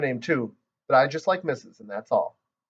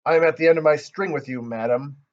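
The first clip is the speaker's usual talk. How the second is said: growly voice; 2 semitones higher than usual. Acted. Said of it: "I made my voice very growly".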